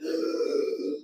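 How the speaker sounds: mock gasp of exhaustion; imitated gasp. First person giving up on the walk, imitated gasp. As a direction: gasp like a walker who is done. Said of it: "first person goes like".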